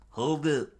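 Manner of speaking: high, loud command; screamed halt. A narrator's reading. Rescuer interrupting the bandit, screaming. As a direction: shout it sharply to stop someone. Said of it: "someone scream out".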